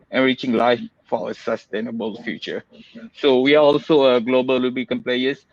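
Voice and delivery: muffled behind a mask; talking through a mask, slightly muffled; through a face mask. Real, not acted. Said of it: "please excuse my mask".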